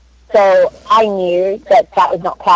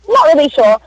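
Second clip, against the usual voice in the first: higher-pitched mock uncertainty; retold clueless director; 7 semitones higher than usual. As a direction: imitate a director with no idea.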